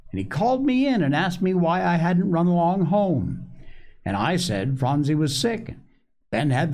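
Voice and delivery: put-on high-pitched child telling his tale; small boy Joel, eager. A narrator's reading.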